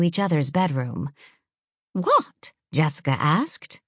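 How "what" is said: surprised. A narrator's reading. Sister asks eager news.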